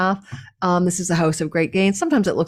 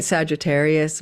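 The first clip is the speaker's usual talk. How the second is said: flat, lower, droning delivery; mock a dull YouTuber's monotone; 3 semitones lower than usual. Shown as a demonstration. Showing viewers a boring YouTube read, monotone. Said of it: "let's try it in a monotone voice".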